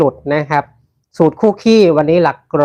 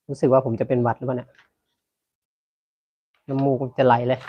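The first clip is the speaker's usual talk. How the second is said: stuffy nasal voice from a cold; 5 dB quieter than usual. Real, not acted. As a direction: talk through a blocked nose. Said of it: "พูดเสียงขึ้นจมูกหมดแล้ว".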